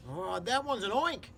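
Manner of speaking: lightly voiced frightened fire chief; mock scream. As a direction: shriek the name in fright. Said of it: "screamed the head of the fire department".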